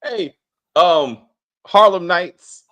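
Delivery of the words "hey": high, loud laughing burst; cracking up mid-word; laughing hard. Real, not acted.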